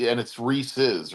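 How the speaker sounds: slow "Ree-siz" for Reese's. Shown as a demonstration. Checking the brand name, Reese's slowly as "Ree-siz". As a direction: end Reese's on a short "siz". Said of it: "Or is it Reese's?".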